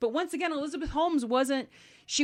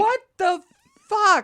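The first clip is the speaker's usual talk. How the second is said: loud, high incredulous outburst; appalled disbelief; 11 semitones higher, 9 dB louder than usual. Real, not acted. Host reacting to the turtle soup story, appalled. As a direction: burst out, utterly aghast.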